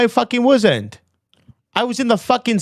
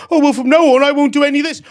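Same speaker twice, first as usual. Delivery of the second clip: mock backpedalling; 5 semitones higher, 4 dB louder, faster than usual. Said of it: "all you do is".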